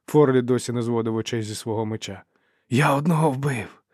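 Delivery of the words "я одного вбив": slower, moderately raised exclamation; repeated boast. A narrator's reading. Fighter repeats his kill to comrades, moderately raised voice. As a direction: say it higher, short of a shout. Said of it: "повторив він".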